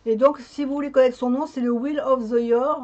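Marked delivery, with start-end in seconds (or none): 1.7-2.8 English with a French accent; bad English accent. Real, not acted. Vlogger showing viewers the deck's name, in French-accented English. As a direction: pronounce the English title with a strong French accent. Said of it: "toujours avec mon accent anglais, euh, très mauvais".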